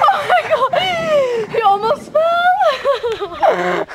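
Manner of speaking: shouting while laughing. Real, not acted. Friend nearly falls.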